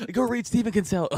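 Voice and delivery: mock advice. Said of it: "it's like".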